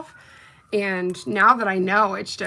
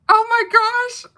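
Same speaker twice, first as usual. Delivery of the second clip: excited gasp; 13 semitones higher, 6 dB louder than usual. Real, not acted. Reacting to the polish.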